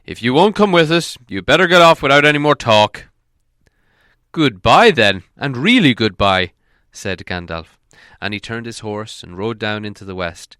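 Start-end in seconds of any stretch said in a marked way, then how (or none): 0.1-3.1 Thorin's voice. A narrator's reading. Thorin dismisses Gandalf. 4.3-6.5 Gandalf's voice. A narrator's reading. Gandalf's final farewell.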